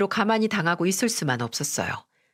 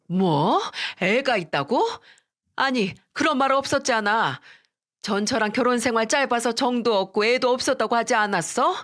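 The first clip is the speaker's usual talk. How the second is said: higher, disbelieving questions; can't believe what she's hearing, voice rising; incredulous mother; 4 semitones higher than usual. Acted. Mother questioning her deceived daughter, incredulous. Mother hears of hidden child.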